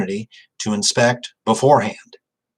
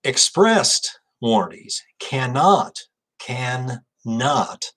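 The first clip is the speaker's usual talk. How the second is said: cannot repeated and held long on the second; slow, leaning on cannot; emphatic cannot; 2 semitones higher, much slower than usual. Shown as a demonstration. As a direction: cannot stretched out to drive the point home. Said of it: "Let me differentiate".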